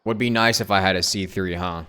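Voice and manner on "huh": normal talking voice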